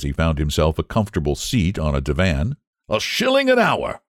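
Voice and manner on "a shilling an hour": painter's offhand answer. A narrator's reading. Painter answers about model's fee.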